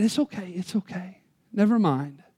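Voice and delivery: gentle father. Acted. Father reassures his little girl, soft and low. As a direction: ease off gently, let it go.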